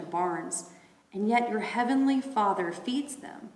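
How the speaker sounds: scripture reading. Acted. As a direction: read it out like a lesson.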